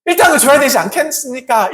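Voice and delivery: acted-out hopeful reasoning, lifting in pitch; expectant workers. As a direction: voice the workers' rising hopes. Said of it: "이런 마음을 그렇게 생각한 것입니다".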